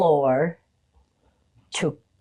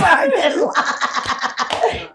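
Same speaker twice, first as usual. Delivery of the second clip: high, loud, laughing; laughing apology; 8 semitones higher, 5 dB louder than usual. Retold or imitated. Laughing apology to the poor secretary. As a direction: confess it through laughter. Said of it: "I went".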